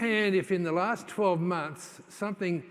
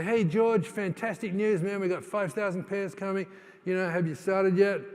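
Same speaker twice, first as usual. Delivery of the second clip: excited phone call; 3 semitones higher than usual. Retold or imitated. Telling George on the phone about big orders, excited. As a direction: sell the good news with a grin you can hear.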